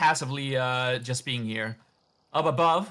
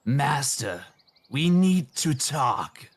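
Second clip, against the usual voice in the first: demon voice; slower than usual. Acted. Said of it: "The demon says".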